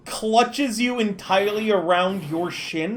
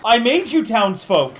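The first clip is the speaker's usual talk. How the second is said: higher, pleading desperation; begging for orders, voice raised; frantic pleading; 4 semitones higher than usual. Acted. NPC pleading with citizen Lloyd, higher and frantic.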